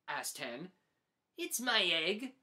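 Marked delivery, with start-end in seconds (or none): 1.4-2.3 proud. Acted. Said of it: "said Pig proudly".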